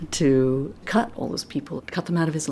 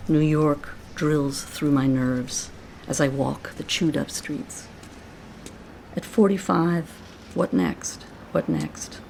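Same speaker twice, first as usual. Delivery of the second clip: poetry reading. Acted. Reciting a poem about a father and winter streets, poetry reading. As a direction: read the poem deliberately, line by line.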